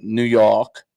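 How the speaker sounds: put-on a light New York accent on "New York". Playing host tries his New York accent, lightly. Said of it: "let me do my New York accent".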